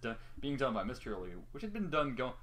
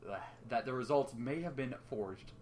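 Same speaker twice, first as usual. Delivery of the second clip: usual speaking voice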